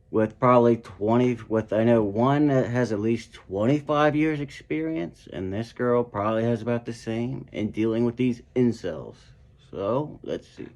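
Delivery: talking around whitening strips. Real, not acted. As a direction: mouth full of strips. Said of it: "so if I'm talking weird, that's why".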